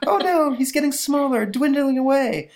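hammed-up distressed lady; mock-tearful high woman's voice; Elsa voice. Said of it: "You missed my Elsa voice".

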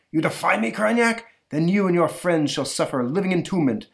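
high, loud hammed-up fury; mock tyrant roaring; villainous pharaoh. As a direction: sentence the wizard to entombment. Pharaoh condemns Kronyak.

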